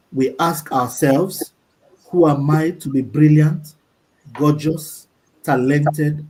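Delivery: slow, measured quote reading with pauses; deliberate recitation, letting each phrase stand. Real, not acted. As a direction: read it out slowly, phrase by phrase. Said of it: "I'll read very slowly".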